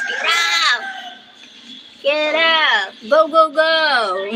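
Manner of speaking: playful calls to get up; laughing hurry-up; mock urgent wake-up calls; urging.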